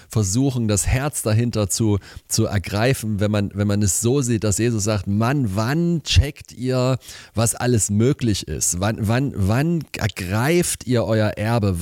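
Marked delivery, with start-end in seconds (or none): 5.1-11.8 dramatic, drawn-out plea to finally get it; sharp exasperation. Acted. Jesus urging his disciples to grasp it, sharp exasperation. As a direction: stretch out the impatient questions. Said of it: "die Schärfe von Jesus".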